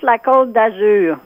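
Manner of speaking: La Côte d'Azur said the French way; careful French "La Côte d'Azur"; French pronunciation. Shown as a demonstration. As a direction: show how La Côte d'Azur sounds in French. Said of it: "it's pronounced".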